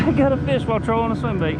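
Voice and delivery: high, loud and fast with delight; excited. Real, not acted. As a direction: rattle it off thrilled. Landing the fish.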